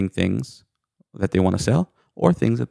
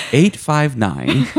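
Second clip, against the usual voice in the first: drawled eight five nine; 4 semitones higher, much slower than usual. Shown as a demonstration. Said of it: "That's Central Kentucky".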